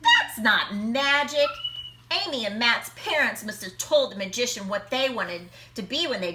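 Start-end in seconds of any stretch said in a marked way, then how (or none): 0.0-1.5 sceptical call. Acted. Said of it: "Ryan called out".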